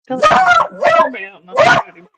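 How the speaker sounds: high, fast talk to the dog; high doggy talk. Real, not acted. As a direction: coo at the dog, quick and high. Talking to the dog.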